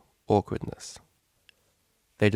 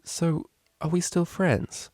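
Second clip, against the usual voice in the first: nervous; 8 semitones higher, slower than usual. Acted. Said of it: "Octavia smiled nervously".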